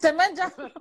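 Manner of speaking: playful accusing echo; teasing echo. Retold or imitated. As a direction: tease her with the question. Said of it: "Massimo uguale". (domanda scherzosa e accusatoria)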